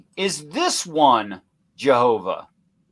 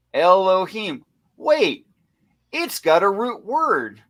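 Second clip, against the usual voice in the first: sarcastic feigned discovery, pitched high; mock innocence; 4 semitones higher than usual. Host leading the audience to the proof, mock puzzled. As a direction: play innocent with exaggerated high-pitched questions.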